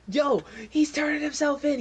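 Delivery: high, loud yell down the hall; guard shouting the news to the others. Acted. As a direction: call it down the corridor, high and loud. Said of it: "He yells up down the hallway".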